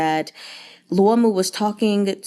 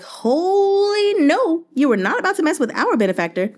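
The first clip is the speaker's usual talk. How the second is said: refugees outraged; 9 semitones higher than usual. Retold or imitated. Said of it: "they're like".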